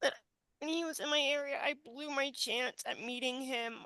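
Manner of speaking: fighting back sobs as the words come; crying. Real, not acted. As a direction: voice breaking through real tears. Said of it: "stop myself right now from crying".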